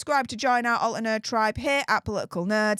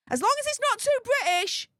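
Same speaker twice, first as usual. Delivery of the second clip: "too British" pitched much higher, mocking; emphatic repeat; 10 semitones higher than usual. Shown as a demonstration. Mocking the university's rule, higher and emphatic. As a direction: hit "too" high and hard on the repeat.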